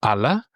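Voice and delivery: Allah said A-la, first a stressed; stress on first syllable. Shown as a demonstration. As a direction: lean on the start of Allah. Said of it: "Try to say it yourself".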